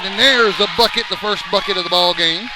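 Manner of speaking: loud, lifted excited shout; excited call. Real, not acted. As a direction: call the basket with a burst of excitement. Live basket call.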